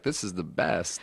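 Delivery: low, slow mock voice; deep mocking quote. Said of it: "you're like".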